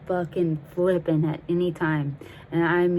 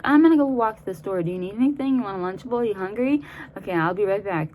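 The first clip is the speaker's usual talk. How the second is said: higher, sing-song retold errand offer; mock breezy offer; 3 semitones higher, faster than usual. Calming friend escaping to the store, mock breezy.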